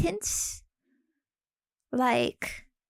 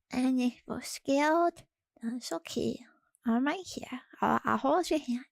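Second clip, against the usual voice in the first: soft reassuring whisper; 3 dB quieter than usual. Pretend. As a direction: whisper like holding their hand. Comforting scared viewers, whispering.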